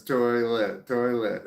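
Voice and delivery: a slow southern terlet read off the screen; sounding out terlet. Shown as a demonstration. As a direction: say toilet as a drawn-out southern terlet. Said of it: "T E R L E T".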